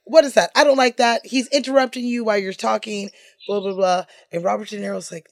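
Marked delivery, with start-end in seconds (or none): 0.0-4.1 high, loud frantic director; director yelling cut. Retold or imitated. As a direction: shout cut like an upset director. Coppola stopping the take.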